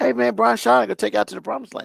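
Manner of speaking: high-pitched, rough, creaky comic voice. Teasing the other speaker about hiring Brian Schottenheimer: Kevin Hart impression. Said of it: "my Kevin Hart impression".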